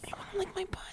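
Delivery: high breathy whisper; mock seductive whisper. Sexy whisper bit.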